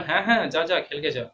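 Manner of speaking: loud, ironic go-ahead; sarcastic permission. Acted. Mother answering child who wants noon football, loudly sarcastic. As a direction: wave them off with mock approval, meaning the opposite. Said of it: "ব্যঙ্গ করছে এবং যেটা বারণ করার কথা সেটার উল্টো কথা".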